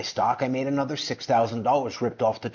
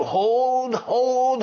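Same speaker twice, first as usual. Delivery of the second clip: much higher, squeaky mock "Hold, hold"; mocking the expert; 9 semitones higher than usual. Vlogger to viewers mimicking the Clown Town expert, high mock voice. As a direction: parrot him in a silly high voice. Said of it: "He's telling you".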